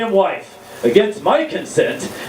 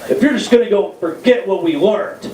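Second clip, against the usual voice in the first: mock heated rant; 4 semitones higher than usual. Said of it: "some very heated, angry voicemails".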